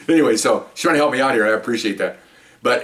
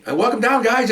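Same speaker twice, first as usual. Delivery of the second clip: high, sing-song welcome; lightly voiced cheerful hostess; welcoming lady; 11 semitones higher than usual. A lady welcoming officers downstairs, sing-song and high.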